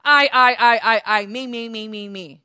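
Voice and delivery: loud self-centred chant of I and me, fading to a mutter; a light mock of a selfish boast; a hint of a self-absorbed devil; mock boastful Satan. Mocking Satan's self-obsession.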